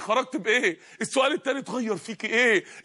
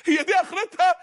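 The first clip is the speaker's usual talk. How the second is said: near scream; 5 semitones higher than usual. Retold or imitated. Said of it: "كاد يصرخ على القبر".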